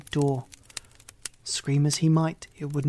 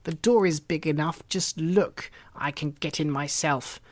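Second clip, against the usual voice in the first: impatient witch. Acted. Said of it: "said the old woman".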